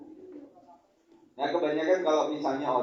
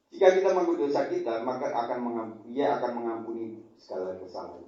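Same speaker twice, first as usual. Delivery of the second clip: louder, faster recital of "Jika kita mengaku dosa kita"; emphatic verse; 3 dB louder than usual. Acted. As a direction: punch the verse home to the congregation. Recaps verse forcefully.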